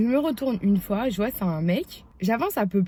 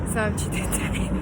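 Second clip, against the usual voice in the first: laughing through the words. Real, not acted. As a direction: laugh mid-phrase.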